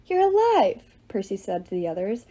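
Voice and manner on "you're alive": relieved joy. A narrator's reading. Percy relieved.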